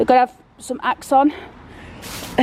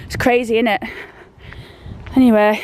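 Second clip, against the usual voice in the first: slightly winded, catching breath; breathless between words. Real, not acted. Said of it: "gotta sound like I'm out of breath".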